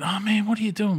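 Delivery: high, fake-innocent whine; a high, fake-innocent gamer whine; mock innocent gamer. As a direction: pretend you didn't mean it. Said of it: "and then went".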